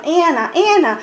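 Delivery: put-on "Ana, Ana" with a light American accent; lightly voiced gringo "Ana"; mild American accent imitation. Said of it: "Su, su acento americano". (leve imitación de acento americano)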